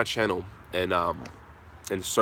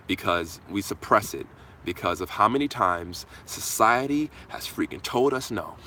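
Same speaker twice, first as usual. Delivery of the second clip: ordinary talk, nothing marked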